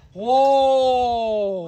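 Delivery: long, high, loud whoop; exultant whoop. Real, not acted. Streamer celebrating after proving chat wrong, exultant whoop. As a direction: let out a drawn-out holler of triumph.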